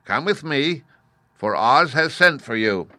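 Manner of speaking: a guard fetching someone by order; summoning soldier. Acted. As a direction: soldier summoning the scarecrow, lightly voiced.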